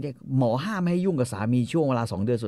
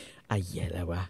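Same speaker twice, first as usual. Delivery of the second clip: baffled mutter; 4 semitones lower, 7 dB quieter, slower than usual. Retold or imitated. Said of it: "ไอ้คาร์โลก็งงมากแบบ".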